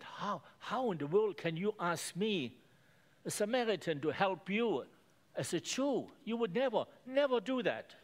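how could you even ask me; incredulous woman. Acted. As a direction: Samaritan woman questioning Jesus in disbelief, voice rising. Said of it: "the Samaritan woman said".

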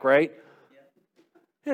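usual speaking voice

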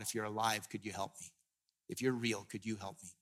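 quiet, pleading, dropping almost to nothing; hushed desperate prayer. Retold or imitated. Pastor voicing the suicidal man's prayer in a near-hushed plea. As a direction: hush right down, as if begging God alone in a car.

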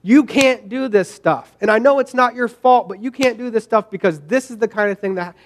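mildly heated retold scolding; retold angry telling-off. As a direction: lay into them, but only half in earnest. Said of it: "I am cursing at them".

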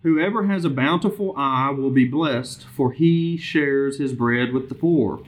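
measured, lifted reading voice; scripture reading. Real, not acted. Bible study leader reading proverbs aloud to the group, measured scripture reading. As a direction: read the verse out clearly to the group.

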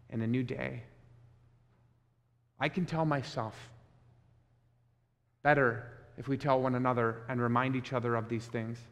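tender quiet appeal. Real, not acted. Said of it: "pastor's tender personal appeal".

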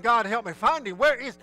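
frantic prayer. Retold or imitated. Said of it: "And I'm praying".

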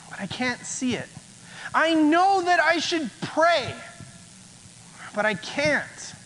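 ordinary talk

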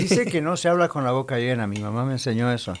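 talking while chewing food; mouth full. Real, not acted. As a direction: speak through a half-full mouth. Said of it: "Pues no está llena todavía".

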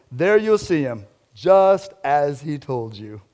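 lightly voiced laid-back surfer dude; easygoing angel, barely put on; casual, unhurried reassurance, slowing at the end; Owen Wilson. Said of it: "a real laid-back voice, maybe like Owen Wilson".

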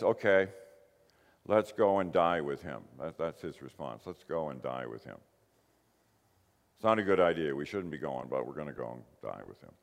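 lightly voiced gloomy Thomas, sinking low; gloomy pessimist. Thomas grimly agreeing to go and die with Jesus, lightly mocked gloom. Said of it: "He's a bit of a pessimist".

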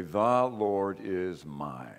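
The Lord is my, drawn out and stopped; slow stress on my. Shown as a demonstration. Preacher lingering on my as the key word. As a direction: stretch it and hang on my. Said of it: "holding on to number four".

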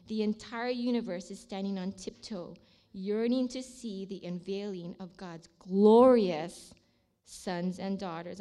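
slow, weighty scripture reading. Acted. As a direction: swell on the key word, then soften. Reads scripture to close.

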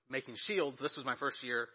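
slightly out of breath. Real, not acted. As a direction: talk while catching your breath. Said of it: "I gotta catch my breath".

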